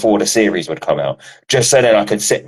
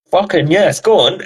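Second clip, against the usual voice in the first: higher-pitched eager cheering on, retold; retold excitement; 9 semitones higher than usual. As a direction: egg it on, voice lifted high. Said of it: "part of me's like".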